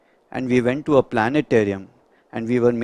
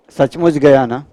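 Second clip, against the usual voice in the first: eager relative; 8 dB louder, much faster than usual. Retold or imitated. Relatives ask doctor if truly dead.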